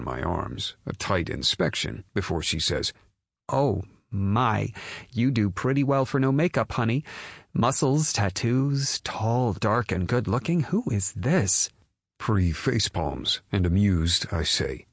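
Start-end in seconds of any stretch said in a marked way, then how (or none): 3.5-11.7 high, admiring mother voice; flirty mother. Acted. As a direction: size him up appreciatively.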